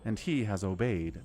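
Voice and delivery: lightly voiced goddess, grave. Reads the goddess's lines aloud.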